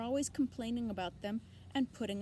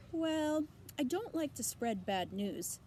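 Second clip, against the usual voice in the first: put-on high, bleating old ewe; nosy old sheep greeting; 6 semitones higher than usual. A narrator's reading.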